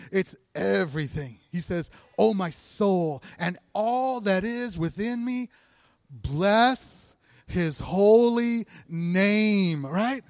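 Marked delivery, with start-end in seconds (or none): 2.2-9.9 very slow, drawn-out scripture reading; psalm recitation. Acted. Preacher repeats David's psalm to the congregation, slow recitation. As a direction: stretch each phrase out reverently.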